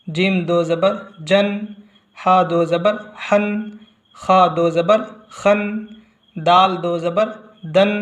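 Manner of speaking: slow, measured letter-by-letter drill; name letter and mark, then sound the syllable; hijje spelling-out recitation. Shown as a demonstration. Qaida teacher spelling out two zabar for learners, hijje recitation. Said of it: "हिज्जे आपको इस तरह से पढ़नी है".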